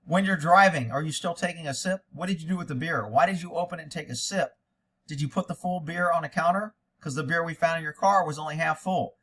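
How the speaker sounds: lightly voiced hard-nosed detective; tough investigator. Host shows how a tough detective should question. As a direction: grill him like a real investigator. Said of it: "here's where it was said".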